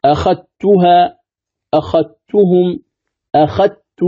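slow أخذتها with ذ merged into ت; أخذتها said as "akhattuha", ذ dissolved into ت; recitation with merging. Shown as a demonstration. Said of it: "الذال مع التاء".

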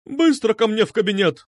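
high, commanding cry; loud cry. A narrator's reading. Medusa orders boys into her office, crying out. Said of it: "возопила она".

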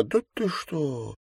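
soft, slow, amazed; hushed delight; delighted gasp. A narrator's reading. Anna hears the bribe news, softly delighted. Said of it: "Анна в восторге".

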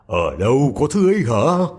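loud, gruff-sounding wolf voice; a hungry wolf asks eagerly; the wolf asking Tom Thumb, loud. A narrator's reading. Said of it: "sói liền hỏi".

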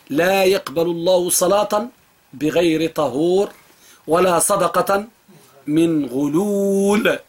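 slow measured recitation; hadith recitation. Acted. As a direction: recite it slowly like a sacred text. (تلاوة بطيئة متأنية)

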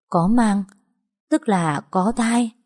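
stunned disbelief. Acted. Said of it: "sửng sốt, không nói lên lời".

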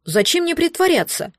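put-on high, hurt childlike retort; offended baby dragon. A narrator's reading. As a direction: sound wounded and high-pitched. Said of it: "обиделся дракончик". (обиженный дракончик)

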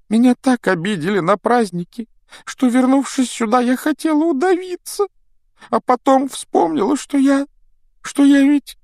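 high wailing ghost complaint; self-pitying ghost girl. Acted. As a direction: wallow in ghostly self-pity. Myrtle tearful story.

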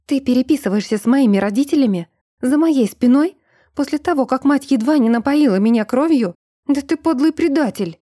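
high, loud accusing shout, fast. A narrator's reading. Эльза shouts in Брун's face from a chair, outraged. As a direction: yell it in his face. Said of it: "выкрикнула в лицо Бруну".

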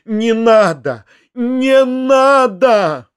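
high, slow pleading wail; crying out. A narrator's reading. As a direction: stretch the vowels, rising to a final long cry. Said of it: "кричал Фома".

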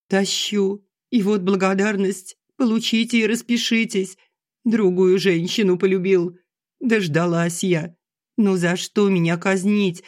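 high, tearful lament; tearful strain. Acted. Wife reproaching husband and daughter, tearful strain. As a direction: push the words out through tears. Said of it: "со слёзным надрывом".

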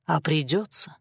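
soft, calm and chilling; mild words, real threat; quiet calm menace; peaceably menacing. A narrator's reading. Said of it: "миролюбиво и от этого ещё более пугающе".

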